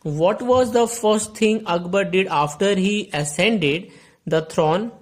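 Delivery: very slow, deliberate reading of the riddle; slow question read. Shown as a demonstration. Teacher reading the riddle aloud to the class, very slowly.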